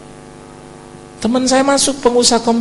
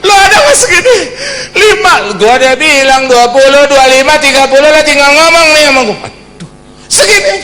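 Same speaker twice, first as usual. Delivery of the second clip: high, loud, cracking with joy; high loud ecstatic cry; overjoyed shout; 10 semitones higher, 11 dB louder than usual. Retold or imitated. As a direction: burst out in disbelief at the money. Shocked joy at the money offer.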